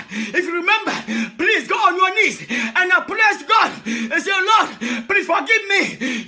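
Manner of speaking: impassioned sermon, calling out to the flock; a pastor pleading and shouting to his people; fervent preaching. Real, not acted. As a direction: preach it with full fire. Preaching at full force.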